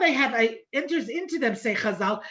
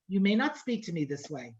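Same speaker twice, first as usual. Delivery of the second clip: low, steady, no-nonsense mother; firm rebuke; 5 semitones lower, 4 dB quieter than usual. Retold or imitated. Mother to her seventeen-year-old daughter, firm rebuke. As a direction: lay down the line calmly but firmly. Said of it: "that's exactly how I said it, that kind of tone of voice".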